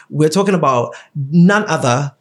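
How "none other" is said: low, slow radio-announcer delivery; put-on radio voice, dropping low at the end. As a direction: draw it out like a radio host revealing the topic. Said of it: "Do you like the, the radio voice?".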